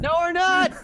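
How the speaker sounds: high, loud, cracking up; giddy high-pitched denial; gleeful retort. Acted. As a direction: shout it through rising laughter. Laughing retort to the crew's line.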